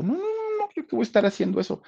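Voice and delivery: very high, rapid mock protest; negativa actuada. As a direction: refuse in a high-pitched rush. Carmen refusing, acted in story. (protesta aguda y atropellada)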